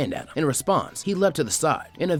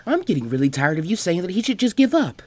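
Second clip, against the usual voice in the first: irritated retort; 7 semitones higher, 4 dB louder than usual. Acted. Ino snaps at Temari.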